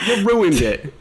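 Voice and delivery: laughing mock complaint; giggling through the words. Real, not acted. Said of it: "laughing complaint".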